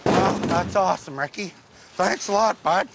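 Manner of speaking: sarcastic thanks. Acted. Nerd thanking Ricky for a backhanded compliment, sarcastic. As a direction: thank him as if you mean the opposite. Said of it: "I was being sarcastic".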